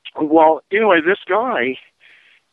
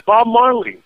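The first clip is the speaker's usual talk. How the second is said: higher mock Jamaican accent, a hint of a street seller; 7 semitones higher than usual. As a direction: lightly play the Jamaican hustler. Jamaican guy pushing ganja.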